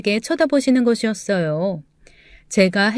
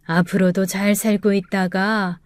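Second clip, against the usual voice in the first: remember a beloved pupil with effort; frail old teacher. Acted. Grandmother continues.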